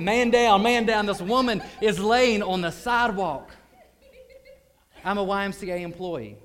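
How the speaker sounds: shouted high and loud alarm; emergency yell at full force; urgent shout. Retold or imitated. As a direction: sound the alarm like a call of man down. Calling out an emergency.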